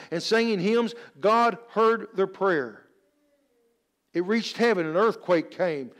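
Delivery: rousing, emphatic pulpit delivery; preaching. Real, not acted. Preacher telling church of Paul and Silas praying, emphatic preaching. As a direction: preach the story with rising conviction.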